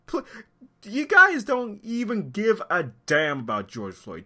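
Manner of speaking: angry accusation. Real, not acted. Commentator accusing looters of not caring about George Floyd, indignant and high. Repeats accusation with more force.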